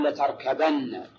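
لتركبن as "latarkabanna", a before the doubled n; fatha before nun. Shown as a demonstration. Teacher rules out the singular form for students, drawn-out latarkabanna. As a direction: stretch out لتركبن with "-banna" ending. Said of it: "ضم ما قبل النون".

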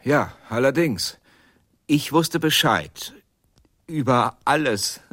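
an outburst of defiant confession; loud defiant admission. Acted. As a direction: declare it openly, no shame.

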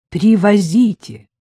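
slow, loud, ceremonial; solemnly. Acted. Anya giving Maxim her solemn, slow consent. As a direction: pronounce it like a grand decree. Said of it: "ответила я торжественно".

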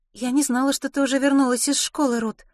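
high-pitched, light character voice; bashful young mother. Acted. Opal tells Ruth she hadn't known, high and bashful. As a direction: keep it high and a little shy.

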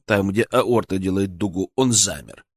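ordinary delivery

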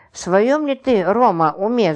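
ordinary delivery

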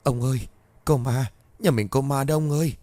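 cling to husband and cry out in fear; wife terrified after nightmare, pleading; frightened crying. Acted. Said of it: "ôm chặt lấy mà khóc".

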